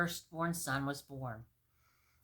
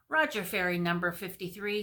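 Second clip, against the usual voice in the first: walkie-talkie squawk; 4 dB louder than usual. Acted. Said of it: "squawked a voice over the walkie-talkie".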